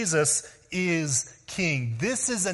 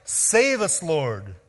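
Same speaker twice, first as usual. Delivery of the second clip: crying out; much slower than usual. Retold or imitated. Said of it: "as they cried out".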